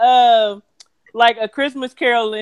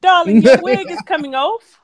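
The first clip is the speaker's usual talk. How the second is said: Mary Poppins; 3 semitones higher, 4 dB louder than usual. Pretend. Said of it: "sounded like Mary Poppins".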